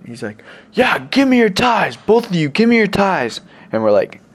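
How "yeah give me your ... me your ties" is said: put-on high, drawn-out drunken demand; imitated drunk guy. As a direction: mimic a drugged-up would-be robber. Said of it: "drunk and drugged up".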